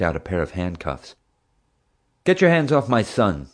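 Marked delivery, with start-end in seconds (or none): 2.2-3.5 angry father's shout. Acted. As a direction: shout it at the police. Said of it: "Dad shouted".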